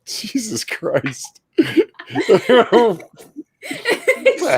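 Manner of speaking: slow, laughing disbelief. Real, not acted. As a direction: drag it out through laughter. Laughing at friend's hat logic.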